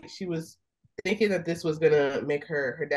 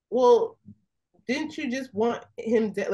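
mock exasperation; 6 semitones higher than usual. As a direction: call out the character's hypocrisy. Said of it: "I was like".

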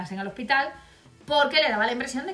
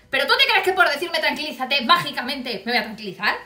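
angry rant; 3 semitones higher, 4 dB louder than usual. Retold or imitated. Angry patient rants at nurse.

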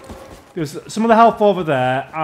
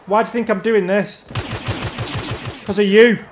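raised, accusing outburst, hammering each "you"; screaming at teammate; 3 semitones higher than usual. Real, not acted. Gamer blaming a teammate for the loss, angry yelling. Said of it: "that's what I'm screaming at you".

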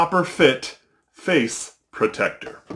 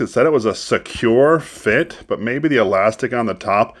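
muffled by fabric covering; speaking through cloth gaiter; through a face mask; 2 semitones lower, 4 dB louder than usual. Real, not acted. Seen 1: Fabric gaiter covers mouth and nose throughout; references show it off.

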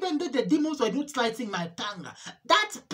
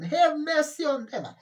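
pleading; 4 semitones higher than usual. Real, not acted. Pleading for cousin and grandmother.

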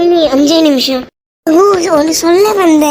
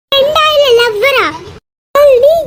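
jealous jab; 7 semitones higher than usual. Acted. Jealous accusation in quarrel.

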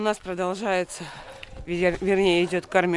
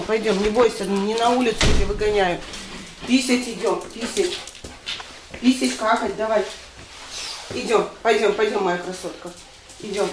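coaxing pet voice; talking to a cat. Real, not acted. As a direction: coax a shy cat outside.

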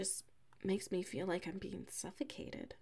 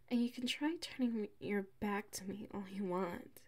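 teasing whisper; 4 dB quieter than usual. Acted. Teasing roommate, unvoiced.

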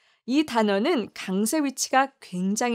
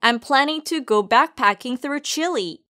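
very slow example sentence; 3 semitones higher, much slower than usual. Shown as a demonstration. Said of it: "함께 발음해 볼까요".

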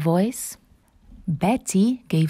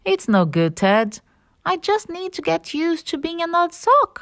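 mildly dejected, giving up; understated glum sock; sadly; 9 semitones higher than usual. Acted. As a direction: resign yourself with a touch of sadness. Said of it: "he said sadly".

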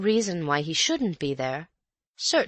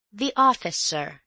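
polite maid; 4 semitones higher than usual. Acted. Maid answers.

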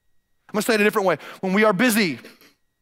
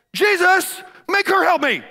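high, loud complaining plea; whiny Martha; 10 semitones higher, 3 dB louder than usual. Retold or imitated. Martha complaining to Jesus about Mary, high loud whine. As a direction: demand help like a put-upon sister. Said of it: "She looks at Jesus and says".

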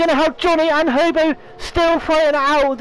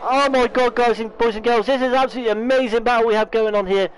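losing his voice, hoarse; rough, worn-out hoarse voice. Real, not acted. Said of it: "Oh, I wanna get my voice back".

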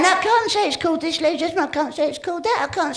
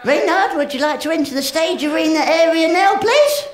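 calling again, louder and more insistent; 4 dB louder than usual. Acted. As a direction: summon him more firmly. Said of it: "calling him again, louder".

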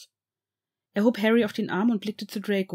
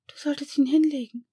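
whispered; 7 semitones higher than usual. Acted. Narcissa advises putting the crying child to bed, whisper. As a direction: whisper it so the child can rest. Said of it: "flüsterte Narcissa".

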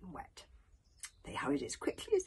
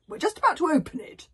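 eager chief; 11 semitones higher, 8 dB louder, faster than usual. Acted. Stoic eager, laughing.

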